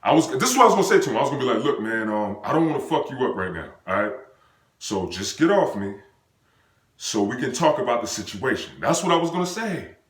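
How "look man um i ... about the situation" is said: low, easy retold reasoning; understated, level-headed appeal; calm, collected. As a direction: talk him down calmly. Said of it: "tell him in a calm way".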